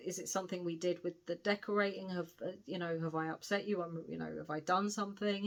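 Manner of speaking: gently voiced sweet concern. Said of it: "And he's really sweet".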